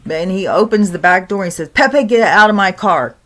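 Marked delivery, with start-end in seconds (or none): 1.7-3.2 louder grandpa ordering ghost out; angry order. Retold or imitated. Grandpa ordering the ghost out of his car, loud. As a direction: command it firmly.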